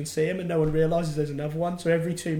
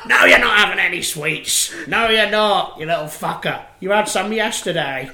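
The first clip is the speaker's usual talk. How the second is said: loud, higher mock telling-off; shouting mum; 5 semitones higher, 8 dB louder than usual. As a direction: yell at the kid in the shop. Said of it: "shout at their kid".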